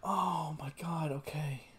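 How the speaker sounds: barely voiced okay; whispered okay. Real, not acted. Collecting himself after shock.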